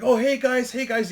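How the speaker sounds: high, loud happy hellos; acted-out giddy greeting; eager greeting. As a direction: imitate an overexcited newcomer greeting the team. Excited goalie arrives greeting everyone.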